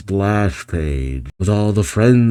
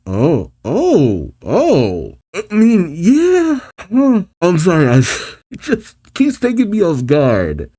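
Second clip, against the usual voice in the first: high, breathless laughing shock; flustered laughter; 6 semitones higher, slower than usual. Real, not acted. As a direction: caught off guard, laugh through it. Shocked laughter at pregnancy reveal.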